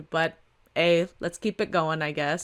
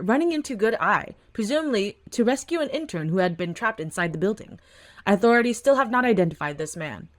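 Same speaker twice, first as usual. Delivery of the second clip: steady broadcast news delivery; news anchor read. Acted. TV anchor reporting the fire, measured news read.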